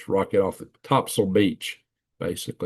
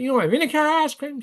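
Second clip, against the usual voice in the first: incredulous friend; faster than usual. Retold or imitated. Ronnie pressing the waitress.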